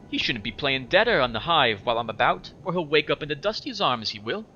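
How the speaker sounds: lightly put-on Scottish girl voice; Anna, attempted Scottish accent. Anna warning about playing dead, in an attempted Scottish accent. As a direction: toss off a threat with a mild Scottish lilt. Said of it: "I'll talk in a higher pitch for her".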